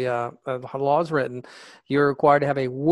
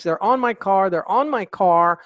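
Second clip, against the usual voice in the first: imitating a screaming caller, a bit higher and louder; mild mock panic, repeating the cry; mock panicked scream; 3 semitones higher, 5 dB louder than usual. Caller screams to the 911 operator, mild mock panic. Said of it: "all of a sudden she screams".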